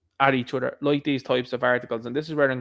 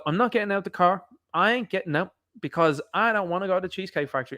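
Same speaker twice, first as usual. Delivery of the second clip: higher-pitched retold refusal; mock refusal; 4 semitones higher than usual. Woman refusing her date at the Cheesecake Factory, mock stubborn. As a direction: lightly act out a stubborn refusal.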